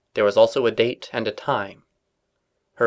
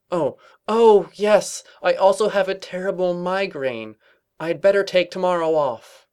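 higher, hammed-up invalid; fake sick; 8 semitones higher than usual. A narrator's reading. Twilight faking a migraine to colleagues, theatrical. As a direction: play the martyr with a hand to brow. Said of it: "flung a hoof to her forehead".

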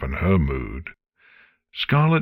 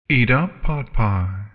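commanding dragon; 5 semitones higher than usual. A narrator's reading. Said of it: "Scarlet commanded".

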